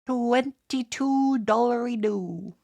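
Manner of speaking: slow, drawn-out robot voice; robotic TTS echo. Pretend. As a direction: stretch each word like a text-to-speech bot. Echoing the TTS message.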